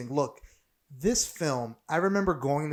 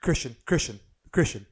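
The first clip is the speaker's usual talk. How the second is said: excited; 7 dB louder than usual. Real, not acted. Egging on cohost to perform.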